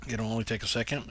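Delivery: talking through hiccups. Real, not acted. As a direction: speak with hiccups. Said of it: "I got the hiccups".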